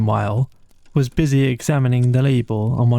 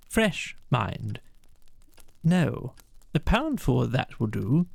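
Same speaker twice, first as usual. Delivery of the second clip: softer murmured snatches of talk; muttered; 5 semitones higher, 7 dB quieter than usual. Acted. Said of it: "much muttered conversation ensued".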